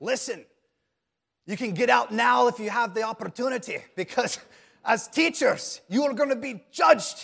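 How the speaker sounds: put-on booming, very loud Gaelic accent, laid on strong. Retelling a teacher's first class, a speaker quotes him in a Gaelic accent. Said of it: "he had that Gaelic accent".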